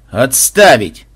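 loud, cutting order; stern command. Acted. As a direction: cut them off sternly. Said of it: "сурово оборвал Бонзай". (суровый окрик)

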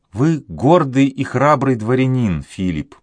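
put-on a heartbroken girl vowing fidelity; young woman pleading; grieving girl. A narrator's reading. Voices the girl Juana.

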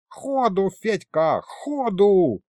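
high, drawn-out urging call. A narrator's reading. Grandfather pushing Fedya to flee, urgent call.

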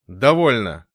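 резко и громко оборвать; рявкни, обрывая служанку; гневный окрик. A narrator's reading. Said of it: "гневно прикрикнул Рори". (гневно, громко)

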